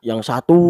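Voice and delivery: "satu" stretched long on one note; single-note intonation. Shown as a demonstration. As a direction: hold the end of "satu" without moving the pitch. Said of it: "dengan intonasi yang sa".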